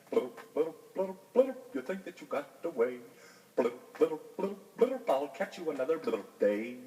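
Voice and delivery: burbling underwater bass voice; bubbling fish. A narrator's reading. Bass vowing to catch the frog, bubbly voice. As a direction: talk through bubbles like a big fish.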